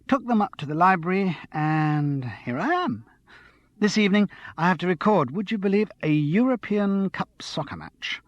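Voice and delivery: a hint of a breathless, excited girl; excited tipsy young woman. Andrea rattles on.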